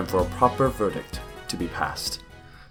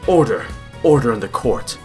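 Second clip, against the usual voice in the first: loud, raised judge's command; calling for order; 4 dB louder than usual. Acted. Judge silencing the gallery, calling for order. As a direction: cut through the uproar with one word.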